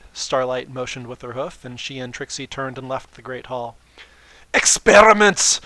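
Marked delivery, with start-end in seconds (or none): 4.6-5.6 loud, higher gleeful cry; gleeful exclamation. Acted. Trixie mocking Twilight's plan, loud glee. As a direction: burst it out delightedly.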